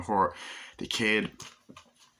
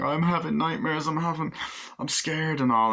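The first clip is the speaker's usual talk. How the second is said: mock scared wife; 8 semitones higher than usual. Cop's wife panicking.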